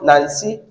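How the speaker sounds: "Nancy" as nan-SEE, end lifted; end-stressed "Nancy"; stress on second syllable. Retold or imitated. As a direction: push the weight onto the last syllable of "Nancy". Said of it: "some people normally call".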